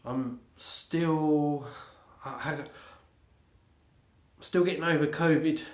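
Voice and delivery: blocked nose, stuffy voice; congested. Real, not acted. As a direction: speak through a congested nose. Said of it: "Excuse me if I sound a bit congested".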